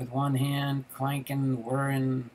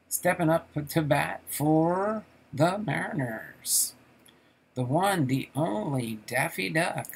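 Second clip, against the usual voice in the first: playful, raised announcer delivery; ballpark announcer; 3 semitones higher, 3 dB louder than usual. Acted. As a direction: announce the batter to the crowd. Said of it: "I'm your announcer".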